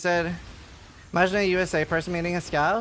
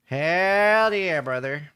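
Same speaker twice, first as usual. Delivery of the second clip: Texan accent; 3 dB louder, much slower than usual. Shown as a demonstration. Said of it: "I was Texan this whole time".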